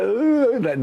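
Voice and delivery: hammed-up groan of pain. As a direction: groan like you're hurt. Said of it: "I was like".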